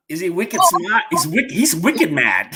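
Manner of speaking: joking attempt at Boston speech; Boston accent. Host trying how people in Boston talk, mock Boston accent. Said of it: "how do the people in Boston".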